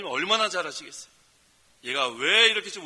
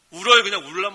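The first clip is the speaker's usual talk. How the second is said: emphatic cry; 11 dB louder than usual. Acted. Pastor urges the flock to weep before God, loud. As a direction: hit 울어요 like an exclamation. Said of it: "urging the flock to cry".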